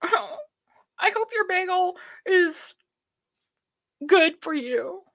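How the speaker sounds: sarcastic host sobbing over viewers' bagels; mock whimpering apology. Mock presenter, whiny repeat.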